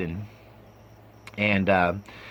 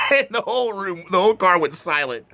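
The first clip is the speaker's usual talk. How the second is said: high-pitched talk through laughter; cracking up while telling the story; laughing hard; 11 semitones higher than usual. Real, not acted. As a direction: squeeze the words out through laughs. Laughing at the tense punchline.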